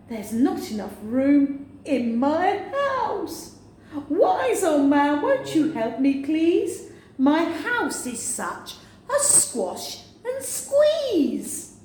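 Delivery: put-on high, slow pleading old woman; little old woman. Old woman begging the wise old man for help, high and whiny.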